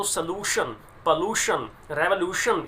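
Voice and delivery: "सॉल्यूशन, पॉल्यूशन, रेवोल्यूशन", each stressed on loo; weak o before a stressed LOO in "सॉल्यूशन, पॉल्यूशन, रेवोल्यूशन". Shown as a demonstration. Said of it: "ऊ जो है इस पर stress होता है".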